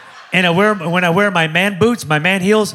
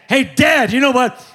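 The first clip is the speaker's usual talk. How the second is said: lightly voiced kid, pitched higher; imitated young son; 5 semitones higher than usual. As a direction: mimic a son calling for his dad. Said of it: "have him say stuff like that".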